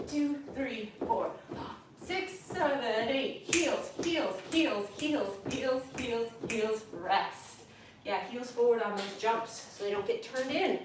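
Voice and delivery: out of breath from jumping; counting while jumping; doing jumping jacks. Real, not acted. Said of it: "it's hard to talk and jump".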